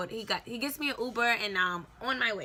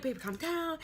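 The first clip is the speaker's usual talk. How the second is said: put-on soothing boyfriend; 7 semitones higher than usual. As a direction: coax her to calm down, mimicking him. Boyfriend soothing her on the phone.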